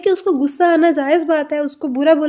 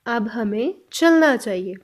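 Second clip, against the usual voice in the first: slow repeat; 3 semitones lower, slower than usual. Shown as a demonstration. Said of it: "next sentence में अब हम बोल रहे हैं".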